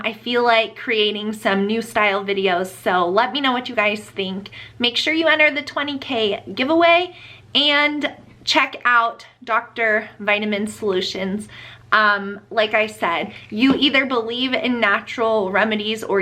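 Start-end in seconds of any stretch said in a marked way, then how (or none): none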